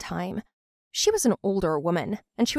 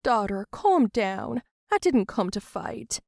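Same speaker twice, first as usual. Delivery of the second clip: calm soothing; slower than usual. Acted. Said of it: "Bianca said to her".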